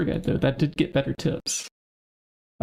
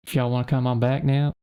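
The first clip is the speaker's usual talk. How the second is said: southern country accent. Shown as a demonstration. Player demoing dialect, lightly drawled Southern country accent. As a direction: invite folks back in a lightly drawled Southern voice. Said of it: "I'll talk in the country accent".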